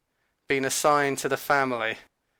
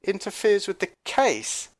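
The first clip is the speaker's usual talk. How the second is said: "Interferes with the case?" as a pointed, doubting question; incredulous echo; 4 semitones higher than usual. Retold or imitated. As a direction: throw "Interferes" back at her, questioning. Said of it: "I turned to her and I said".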